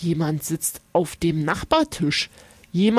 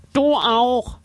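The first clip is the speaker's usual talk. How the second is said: nasal creature voice; 4 semitones higher than usual. A narrator's reading. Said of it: "Es spricht durch die Nase".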